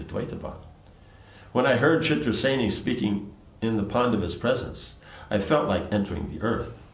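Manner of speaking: measured storytelling read-aloud; even, recited narration; story narration. A narrator's reading. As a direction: read the scripture tale aloud in phrases.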